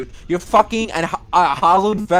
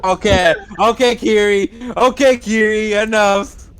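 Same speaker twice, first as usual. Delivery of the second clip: louder firm scolding; 3 semitones higher, 5 dB louder than usual. Real, not acted. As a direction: shut the bit down firmly. Telling Kiri to stop.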